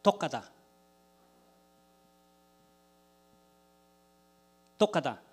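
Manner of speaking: 독가다 said syllable by syllable; sounding out words. Shown as a demonstration. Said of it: "여러분 한번 따라해봐요".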